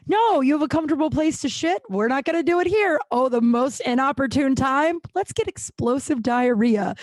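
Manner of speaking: lightly voiced gut, teasing and sly; voicing her own body. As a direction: play the body plotting against her. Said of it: "my fucking body is like".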